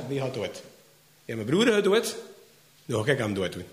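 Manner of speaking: low, quiet, brooding revenge vow; Joab's grim vow. Acted. Joab broods over his dead brother, low and grim. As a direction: mutter it darkly, set on revenge.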